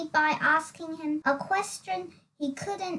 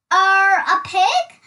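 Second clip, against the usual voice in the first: unsure guess; 3 semitones higher, 10 dB louder than usual. Acted. Dizzy unsure, loud.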